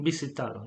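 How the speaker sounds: "Visitado" with S as in bus, no Z buzz; quiet "Visitado", its S voiceless; unvibrated S. Shown as a demonstration. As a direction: say "Visitado" with a soft, unvoiced S. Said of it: "it's not very vibrant".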